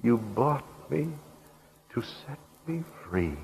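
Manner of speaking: slow, halting, acted sob fading soft; tearful sobbing. A narrator's reading. Freed woman at her buyer's boots, slow acted sobbing. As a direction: narrate it as if choked by tears, drawn out. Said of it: "through her tears she sobbed".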